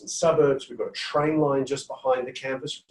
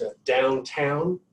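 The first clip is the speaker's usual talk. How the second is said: slow, drawn-out American downtown; American accent; much slower than usual. Shown as a demonstration. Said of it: "I'll try my American accent".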